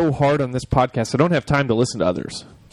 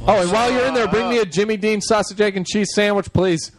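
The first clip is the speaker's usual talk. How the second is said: calling out; 6 semitones higher than usual. Real, not acted. Ordering food from Amy off mic.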